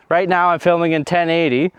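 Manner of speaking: breathless, winded talking; out of breath. Real, not acted. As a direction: talk while catching your breath. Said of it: "Oh, I'm out of breath".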